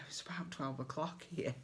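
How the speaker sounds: soft whispered aside, half to herself; hushed confiding aside. Real, not acted. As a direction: drop to a breathy hush for the late hour. Late-night aside about the time.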